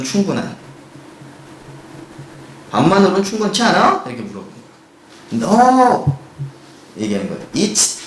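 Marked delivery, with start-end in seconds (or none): 2.7-4.0 higher, louder puzzled ask; lightly acted puzzled question. Voicing question in dialogue. 5.5-6.2 high loud shout; a loud acted refusal; mock shout. Voicing student's shout in dialogue.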